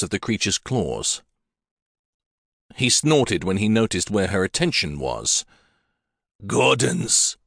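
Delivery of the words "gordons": put-on lightly gruff, crusty old chieftain; a hint of a crusty old Highland laird; a touch of crusty Scots chief. A narrator's reading. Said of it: "he began in a crusty voice".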